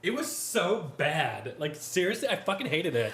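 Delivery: laughing through the confession; chuckling while admitting the truth. Real, not acted.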